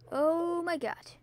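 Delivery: hushed whisper, slowed; whispering an awed oh my god. Real, not acted. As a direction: breathe it out in a whisper. Whispered reaction.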